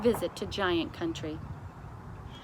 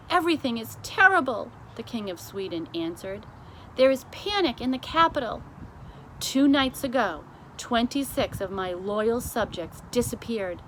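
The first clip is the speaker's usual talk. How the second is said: panicked king; 3 semitones higher, 3 dB louder than usual. Acted. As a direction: sound the alarm for a nation.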